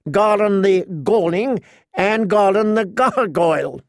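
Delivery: amused knight telling on himself; laughing. Acted. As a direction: laugh your way into a silly boyhood tale. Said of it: "Sir Garland laughed".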